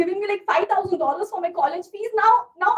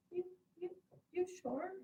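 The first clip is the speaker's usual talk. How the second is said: ordinary talk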